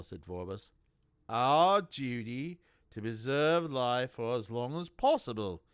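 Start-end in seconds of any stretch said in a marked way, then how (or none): 1.3-5.6 cold inquisitor. A narrator's reading. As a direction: lean on it like a threat. Vorbis's menacing pious remark.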